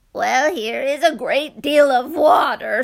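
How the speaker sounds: loud, proud announcement; booming old man. Acted. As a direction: declare it grandly. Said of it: "said the very old man".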